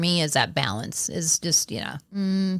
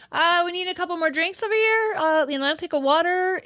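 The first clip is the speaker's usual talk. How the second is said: pretend diner; 9 semitones higher than usual. Imagined tagging along on date.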